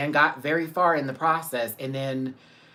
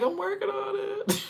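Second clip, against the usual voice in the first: imitating; 4 dB quieter than usual. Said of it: "And I was like".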